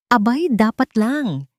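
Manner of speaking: indignant mother cutting him off; sharp retort. Acted. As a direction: snap it back at him, slow and loud. Mother snaps back at son.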